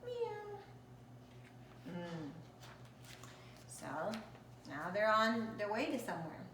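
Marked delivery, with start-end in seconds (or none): 0.0-0.6 meow. Acted. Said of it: "And Kitty said".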